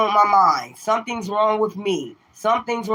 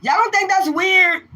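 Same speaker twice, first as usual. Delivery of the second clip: incredulous; 10 semitones higher, 3 dB louder than usual. Real, not acted. Asking viewers, incredulous.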